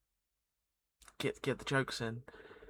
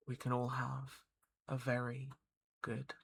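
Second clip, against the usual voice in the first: whispering; 3 dB quieter than usual. Real, not acted. Whispered sign-off.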